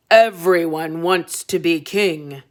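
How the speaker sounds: a hint of a pompous king; lightly voiced king, sure of himself; king insisting. King insisting to his son, lightly voiced pompous king.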